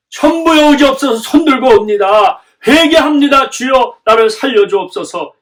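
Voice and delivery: loud, high cry of repentance to God; fervent confession. Acted. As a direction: plead aloud for mercy, easing at the end. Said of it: "이렇게 고백을 하는 것을". (회개하며 크게 부르짖는 고백 기도)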